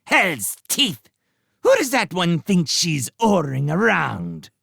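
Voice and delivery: high, indignant rat outburst; angry splutter. Acted. Redtooth fuming at Constance's orders, high indignant splutter. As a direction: sputter in outrage. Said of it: "Redtooth spluttered angrily".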